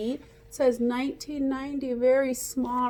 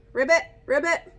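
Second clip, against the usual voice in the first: frog croak; 4 semitones higher, 6 dB louder, faster than usual. Shown as a demonstration. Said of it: "we had a frog".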